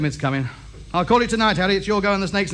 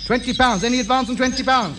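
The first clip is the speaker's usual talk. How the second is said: auctioneer; 6 semitones higher than usual. Acted. Auctioneer taking bids.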